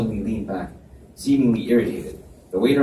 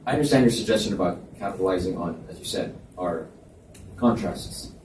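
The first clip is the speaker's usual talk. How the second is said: businesslike; 3 semitones lower than usual. Acted. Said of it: "in a much more businesslike tone".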